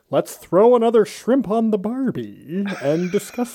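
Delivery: Muppet-like attempt at Australian; badly faked Aussie accent. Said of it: "I'm not so great at the Australian".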